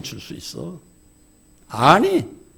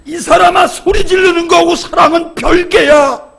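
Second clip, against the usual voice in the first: much higher, louder reenacted shout; exasperated husband's loud outburst, replayed from the pulpit; retold yelling at wife; 13 semitones higher, 9 dB louder than usual. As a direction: bellow it at her the way he did that day. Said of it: "감정이 탁 솟구쳐서 또 소리 질렀어요".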